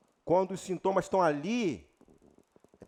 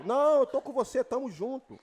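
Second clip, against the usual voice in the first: devil voice; 3 semitones higher than usual. Retold or imitated. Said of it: "O diabo".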